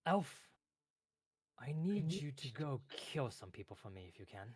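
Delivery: lightly voiced little clerk; bossy clerk. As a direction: give a cheerful order. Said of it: "puts his hand on your shoulder".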